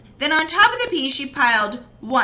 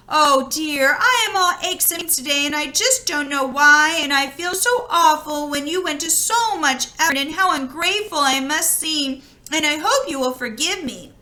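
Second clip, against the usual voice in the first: higher, quick apologetic gush; girl fussing over aches and pains; fretful girl; 3 semitones higher than usual. Acted. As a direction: tumble out apologies. Girl voiced, apologetic rush.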